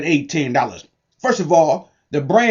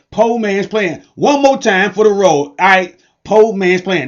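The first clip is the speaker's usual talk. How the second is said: call and response; 3 semitones higher than usual. Shown as a demonstration. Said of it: "One more time, say it with me".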